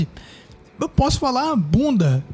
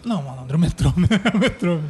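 laughing; 2 semitones lower, faster than usual. Real, not acted. Laughing at the silly question.

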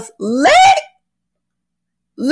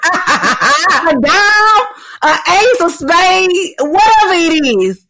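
laughing through the words; 5 semitones higher, slower than usual. Real, not acted. Cohost correcting her slang while laughing. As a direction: laugh as you correct yourself.

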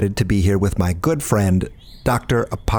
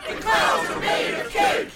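very high, drawn-out excited cry; squealed, slow gleeful chant; whooping and hollering; slower than usual. Acted. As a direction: join in the crowd's holler. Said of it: "whooping and hollering".

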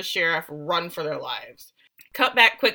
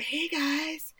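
slow, creepy higher monster voice; Uker; 6 semitones higher, much slower than usual. Retold or imitated. Host voicing the creature greeting the survivors, creepy and slow. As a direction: drag it out like a hungry creature. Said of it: "here comes Uker, and he's like".

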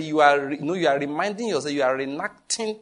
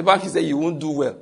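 laughing; 4 dB louder than usual. Real, not acted. Laughing while quoting himself.

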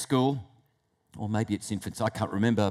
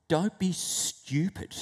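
little inner voice; 4 semitones higher, 4 dB quieter, slower than usual. Acted. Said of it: "there's this little voice".

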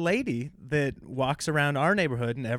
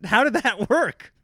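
incredulous; 9 semitones higher, 7 dB louder than usual. Retold or imitated. Amazed retold reaction.

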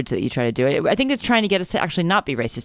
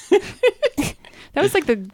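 imitated noise; 13 semitones higher, much slower than usual. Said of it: "He's like".

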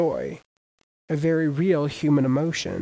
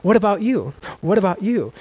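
mildly giddy street-preacher invitation, higher pitched; 4 semitones higher, 3 dB louder than usual. Retold or imitated. Preacher imitating giddy John calling people to baptism, giddy. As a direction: play John giddily asking around, lightly hammed-up. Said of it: "being all giddy saying".

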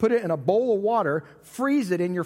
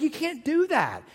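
mock protest; 9 semitones higher than usual. Retold argument with wife.

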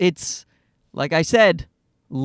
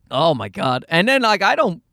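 ordinary talk

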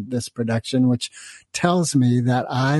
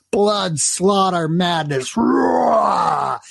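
hammed-up menace; 6 semitones higher, much slower than usual. Dramatic samurai rampage description.

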